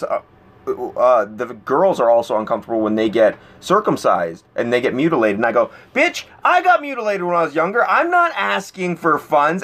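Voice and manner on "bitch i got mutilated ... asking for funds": retold outburst, pitched up; mock blowing up at the canvasser; pitched-up retold rant; going off the handle. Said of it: "I just go off the handle".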